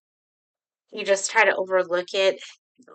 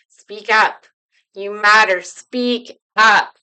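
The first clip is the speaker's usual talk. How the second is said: louder, firm rallying call; 10 dB louder, slower than usual. Shown as a demonstration. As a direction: urge them to speak up, full voice. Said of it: "I want you to say it loud".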